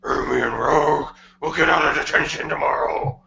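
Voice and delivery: grit teeth and rasp it from the back of the throat; gritty Sonic voice. Acted. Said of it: "The Sonic voice makes me lightheaded".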